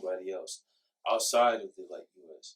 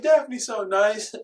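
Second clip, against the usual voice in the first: coworkers gushing; 7 semitones higher, 6 dB louder, much slower than usual. Retold or imitated. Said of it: "And they be like".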